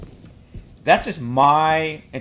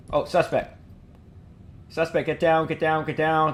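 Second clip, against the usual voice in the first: high, urgent police shouts; shouted commands; 5 semitones higher than usual. Acted. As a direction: bark orders at the suspect. Acted room clearing, calling out.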